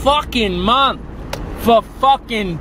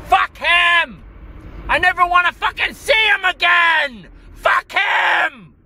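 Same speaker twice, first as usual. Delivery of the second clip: high-pitched angry shouting; enraged; 5 semitones higher than usual. Real, not acted. Done with his brother for good, enraged shouting. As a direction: shout him off in real fury. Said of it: "this video of rage".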